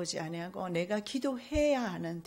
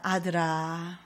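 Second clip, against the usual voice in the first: soft call to son; 3 semitones lower, much slower than usual. Acted. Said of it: "부드러운 음성으로 사랑하는 아들을 부름".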